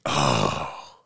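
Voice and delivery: long, deep-dropped realization; low sinking oh. Retold or imitated. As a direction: let it out low, as it dawns on you. Retells dawning realization.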